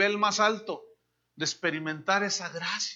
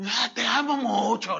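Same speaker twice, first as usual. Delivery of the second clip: mock sweet talk; 3 semitones higher than usual. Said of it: "le dice".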